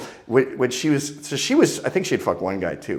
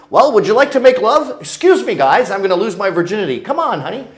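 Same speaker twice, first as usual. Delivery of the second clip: high, louder hammed-up lover voice; mock suave seducer; 10 semitones higher, 8 dB louder than usual.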